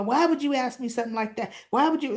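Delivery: mildly heated, quick demand; high and hot. Retold or imitated. Derek snapping back at Andre's question, high and hot. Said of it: "all high and hot".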